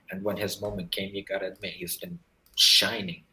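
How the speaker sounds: glitchy robotic connection. Real, not acted. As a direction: voice breaking up like a robot. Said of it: "your voice sounds a bit ro-, robotic".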